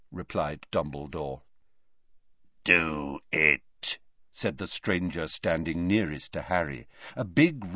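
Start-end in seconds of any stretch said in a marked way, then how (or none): 2.6-4.0 rasping bark. A narrator's reading. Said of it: "a rasping bark of a voice".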